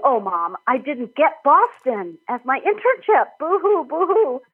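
retold self-pitying whimper, playful; mock sniffling. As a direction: ham up a pitiful boo-hoo to mom. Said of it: "was sniffling".

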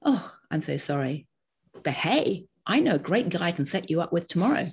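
quick sympathy then a bright pivot to help; sorry, then instantly upbeat and pushy; a touch of mock New York hustle; brisk upbeat New York cheer. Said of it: "people would go".

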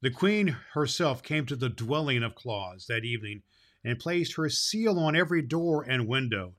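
steady storybook reading voice, lively on the quotes; story narration. A narrator's reading. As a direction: read it like a fairy tale to listeners. Reads fairy tale aloud.

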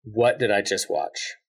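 a dazed moviegoer, slowly; stunned disbelief. Pretend. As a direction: let it sink in, slowly. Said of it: "What, what's your reaction?".

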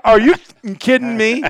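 can't believe he won't shoot; exasperated outburst. Retold or imitated. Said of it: "So he go".

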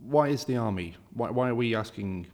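ordinary delivery

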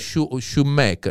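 "shoemaker" slowly, sounded out as spelt; Italian-style pronunciation. Shown as a demonstration. Explaining Italian spelling, slow sounded-out "shoemaker". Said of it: "they would pronounce it".

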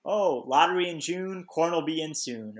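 a touch of folksy singsong; mock-cheerful townsman's saying; cheery saying, imitated. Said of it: "one of those cheery things".

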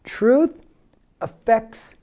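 call-and-repeat slogan. Shown as a demonstration. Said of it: "Say with me again".

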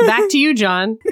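laughing anchor sign-off; news anchor. Pretend. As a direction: toss it back to the studio like an anchor. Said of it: "news anchor bit".

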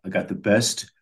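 a hint of a Chicago local's accent; retold Chicago guy, lightly accented; put-on Chicago accent. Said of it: "I love the accent".

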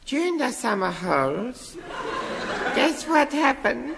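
put-on high, giddy little boy; squeaky kid character, gushing; childish high voice.

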